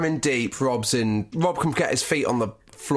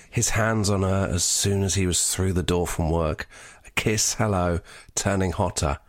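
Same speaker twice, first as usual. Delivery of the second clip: sultry reading; 5 semitones lower than usual. Acted. Asked to read the sex scene sexier, low sultry voice. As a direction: drop the voice and make it sexy. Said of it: "Be sexier, Josh".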